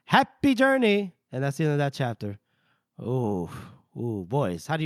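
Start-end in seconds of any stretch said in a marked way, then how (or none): 0.1-1.1 higher, slow and louder ironic send-off; mock farewell. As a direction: wish him well with a veiled threat.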